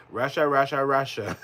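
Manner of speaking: light Trump impression, Russia repeated; a hint of Trump's sing-song chant; mild mock Trump; imitating Trump. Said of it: "I love saying that 'cause, like, Trump, he says that a lot".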